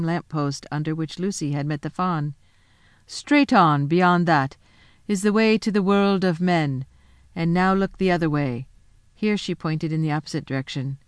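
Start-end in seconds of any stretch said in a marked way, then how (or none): 3.1-8.7 a lightly voiced queen, a little louder and commanding; the Queen, coaxing. The Witch Queen giving Edmund directions, lightly voiced and coaxing. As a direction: play the queen luring the boy gently.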